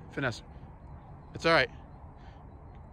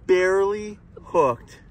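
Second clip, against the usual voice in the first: amazed; 6 semitones higher, 8 dB louder, much slower than usual. Real, not acted. Amazed at how the fish hung on.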